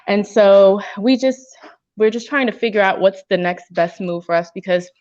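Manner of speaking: talking around gum; chewing gum while speaking. Real, not acted. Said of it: "I have a piece of gum in my mouth".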